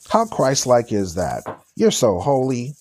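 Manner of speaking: dry mock praise; sarcastic. Preacher mocks vampire-costume Christians, sarcastic. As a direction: sneer it like praise. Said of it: "you can smell my sarcasm".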